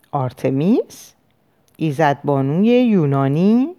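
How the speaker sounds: slow, questioning echo with rising endings; puzzled query. Acted. Therapist asking his patient about an unfamiliar name, mildly puzzled.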